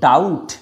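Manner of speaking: ডাউট, B left silent before the t. Shown as a demonstration. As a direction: say ডাউট with no b sound. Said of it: "বি silent".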